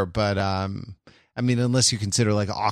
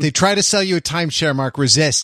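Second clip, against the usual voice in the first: louder, faster joking plea; mock urgent warning; 6 semitones higher, 6 dB louder than usual. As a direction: warn him loudly, hamming up the danger.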